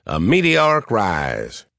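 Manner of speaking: slow, light Southern drawl. Retold or imitated. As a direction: drag it out in a mild Southern drawl. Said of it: "in his thick Southern drawl".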